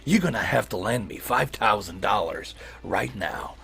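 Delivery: hissing whispered snake voice. Acted. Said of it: "I'll give you the settings and the snake voice".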